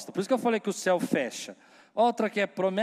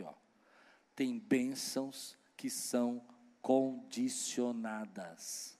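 much softer, lower, slow hushed voice; leaning in to whisper; 5 semitones lower, 7 dB quieter, slower than usual. Real, not acted. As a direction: lean in and hush it, slowly. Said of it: "eu vou falar baixinho".

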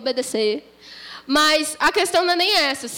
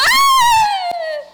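high cry, less dramatic; weary falling cry; 5 dB louder than usual. Acted. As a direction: cry out tiredly as you fall. Falls a third time.

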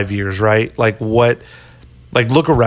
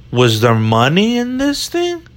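Italian Chicago cop; 9 semitones higher than usual. Pretend. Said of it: "worst cop impression ever".

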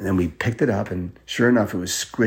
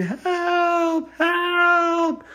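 high, far scream for help; thin, terrified call from above. Acted. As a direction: cry out while falling. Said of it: "And she was screaming".

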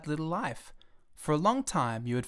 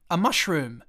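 louder, higher scornful cry; furious; 4 semitones higher, 5 dB louder than usual. Acted. Little prince scornful of the red-faced gentleman, furious cry. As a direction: hurl the word in contempt. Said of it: "white with rage".

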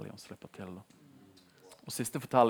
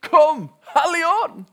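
drawn-out, much higher and louder cry to the Spirit; shouted call; 18 dB louder, much slower than usual. Retold or imitated. Preacher reenacting the hippie calling on the Spirit, full shout. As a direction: cry out to the room at full force. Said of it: "roper han ut".

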